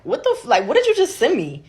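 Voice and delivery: rising high in stunned disbelief; shocked disbelief. Retold or imitated. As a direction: caught off guard, voice jumping up. Shocked at boyfriend's video.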